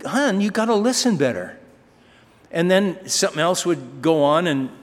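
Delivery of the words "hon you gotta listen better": higher, patient father's correction; lightly voiced gentle dad. Father gently corrects daughter, lightly voiced patient dad. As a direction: coax her kindly, a touch of mock patience. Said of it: "And I go".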